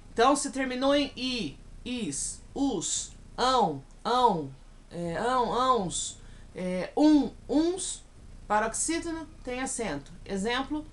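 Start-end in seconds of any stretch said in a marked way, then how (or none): none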